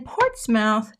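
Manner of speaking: "Portsmouth" with the second syllable said like "mouth"; "Portsmouth" with an unreduced "-mouth" ending; trying a pronunciation. Shown as a demonstration. Trying out British town pronunciation.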